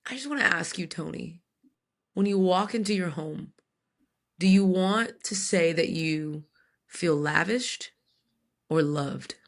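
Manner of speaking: measured, lightly voiced counselor; gentle counselor. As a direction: gently imitate a therapist posing a question. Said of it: "my counselor gently was like".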